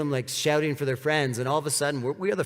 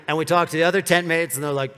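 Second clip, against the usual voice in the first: usual speaking voice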